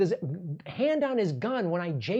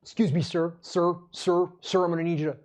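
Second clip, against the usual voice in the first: lightly voiced robotic cop; dumb robot cop voice. Cop repeating sir at a citizen, mock robot voice. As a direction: repetitive scripted sir, mock. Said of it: "dumb robot voice".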